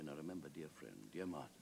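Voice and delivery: solemn deadpan Wilde; very grave. Acted. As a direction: weigh each phrase gravely, halting between them. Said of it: "Wilde said very gravely".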